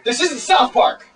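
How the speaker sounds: high, slow scolding yell; exasperated yell. Acted. Co-host telling Cotton off for crying, exasperated yell. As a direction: yell it drawn out, pitch up high.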